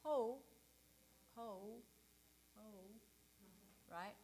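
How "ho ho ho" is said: slack, uncertain ho; wrong ho. Shown as a demonstration. Coach showing the wrong ho to avoid. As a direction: ho like you forgot what to do. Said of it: "And it's not".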